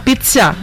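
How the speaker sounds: "Pizza" with a ch in the middle, carefully; self-correcting pizza. Shown as a demonstration. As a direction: Pizza corrected toward the Italian sound. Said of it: "a veces me corrijo".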